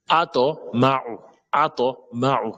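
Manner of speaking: Ato ma'u slow, T released with an echo; bouncing qalqala T. Shown as a demonstration. Teacher drilling qalqala, slow bounced T. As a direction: bounce the heavy T into "to" before ma'u. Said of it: "Le to, col colon".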